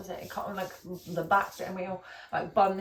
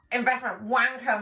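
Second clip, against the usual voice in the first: mocking; 4 semitones higher, 7 dB louder than usual. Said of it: "I was like".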